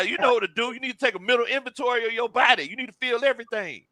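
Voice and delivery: therapist. Retold or imitated. Friend retells counseling a slumping golfer, mock therapist. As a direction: counsel gently, as a pretend therapist. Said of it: "sitting here like a therapist".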